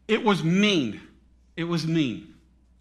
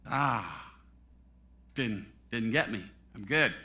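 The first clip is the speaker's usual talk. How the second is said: low, soft sigh of relief; hushed, lightly acted relief; mock relief; 7 semitones lower, 6 dB quieter than usual. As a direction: play someone quietly thinking they got away. Acting a sinner who escaped.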